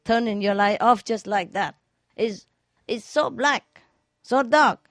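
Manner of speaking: hammed-up outrage, not full volume; mock drunk yell. Drunk driver yelling at the car in front, mild mock yell. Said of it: "come out and scream".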